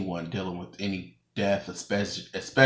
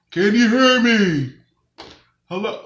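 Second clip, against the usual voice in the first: calling out; 13 semitones higher, 11 dB louder than usual. Real, not acted. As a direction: call out to see if anyone hears. Checking if phone audio works.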